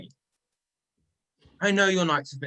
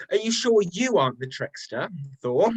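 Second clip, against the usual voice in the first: laughing tease. Acted. Loki laughs at Thor's accusation.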